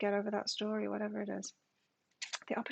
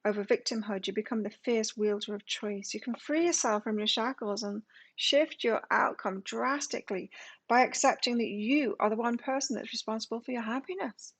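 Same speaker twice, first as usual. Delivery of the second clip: reading aloud; 4 dB louder than usual. Real, not acted. Reads oracle card text aloud.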